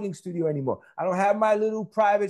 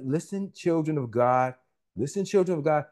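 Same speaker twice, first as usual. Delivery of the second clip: preaching; 3 semitones lower than usual. Acted. Preacher addresses congregation.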